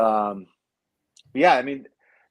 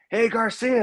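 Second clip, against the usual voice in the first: friendly call; 12 semitones higher, slower than usual. Retold or imitated. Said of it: "He's like".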